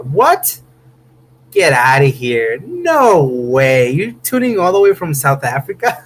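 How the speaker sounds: can't believe where the viewer tunes in from; stunned disbelief. Real, not acted. Streamer reacting to a viewer from Cape Town with real disbelief. Streamer reads surprising chat comment.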